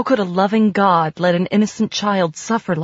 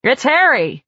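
friend's voice; 7 semitones higher than usual. A narrator's reading. Friend Harry on the phone.

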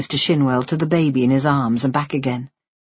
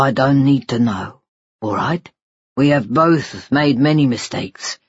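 lightly lowered voice of a doting father; tender father; 2 semitones lower than usual. Acted. Father promising his baby son a future, tender. Husband forgives wife.

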